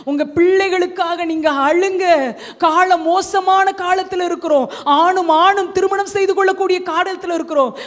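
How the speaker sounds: insistent, projected exhortation; urgent preaching. Real, not acted. Preacher warns the congregation about the times, urgent exhortation. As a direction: warn the congregation with mounting urgency.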